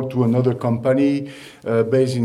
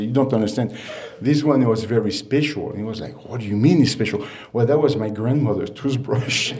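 laughing through the quote. Retold or imitated. Bocuse's toothbrush story, laughing through it.

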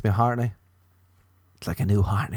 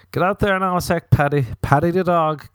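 owner shooing dog; 8 semitones higher, 4 dB louder than usual. Retold or imitated. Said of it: "people would tell their dog to get out".

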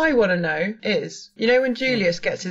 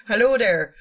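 rough West Indies accent; attempted Jamaican accent. Shown as a demonstration. Showing friends the vampire's voice, in attempted Jamaican accent. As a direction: try a Jamaican lilt, badly faked. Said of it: "doing a sort of West Indies Jamaican accent".

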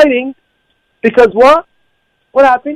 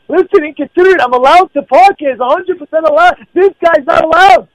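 retold argument, pitched up and insistent; mildly raised, higher arguing voice; voice getting louder; 5 semitones higher than usual. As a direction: act out defending yourself in a rising voice. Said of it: "my voice is going a little bit louder now".

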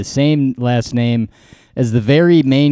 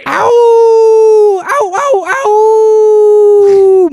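sharp high yelps of pain; pained yelling; 6 dB louder, much slower than usual. Pretend. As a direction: cry out like you got hurt. Mock pain yelps before show.

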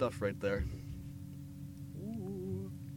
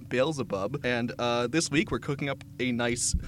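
loud cheerful demon TV chef; Beelzebub; 5 dB louder than usual. Pretend. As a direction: ham up a devil cooking show host. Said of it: "I am your host, Beelzebub".

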